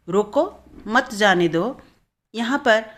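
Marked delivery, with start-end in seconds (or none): 0.1-1.8 "रोको" set apart, then "मत जाने दो"; slow रोको, break, then louder मत जाने दो; pause after रोको. Shown as a demonstration. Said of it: "न जाने देने".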